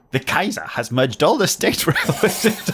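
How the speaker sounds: high, giggly mock German accent; laughing through a hammed-up German accent. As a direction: put on a German accent and crack up halfway. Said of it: "You have to do a German accent now".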